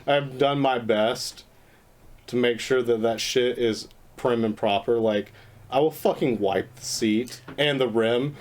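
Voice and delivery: drawn out and tipsy. Real, not acted. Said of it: "I'm really drunk right now".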